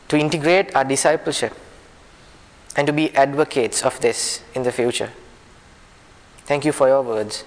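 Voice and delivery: measured prayer with pauses between phrases; earnest public prayer, ending on Amen; closing prayer. Real, not acted. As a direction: pray aloud for the group, phrase by phrase. Closing a prayer before the group.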